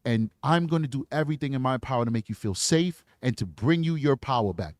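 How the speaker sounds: victim-friendly interview voice; gentle reassuring. Shown as a demonstration. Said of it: "That's how you talk to somebody".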